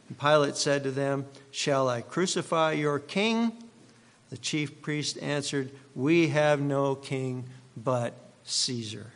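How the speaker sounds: measured, formal Bible reading; solemn gospel reading from the pulpit; scripture reading. Acted. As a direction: read the passage to the congregation with weight. Reads scripture aloud before preaching.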